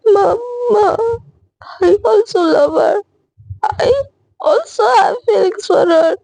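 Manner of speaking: slow, halting words through tears; tearful confession. Retold or imitated. Daughter confessing her love to her mother, slow and tearful. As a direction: choke out the confession slowly, barely holding together.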